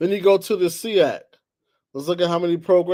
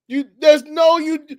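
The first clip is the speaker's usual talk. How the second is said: exasperated; 8 semitones higher, 5 dB louder than usual. Real, not acted. Heated rant.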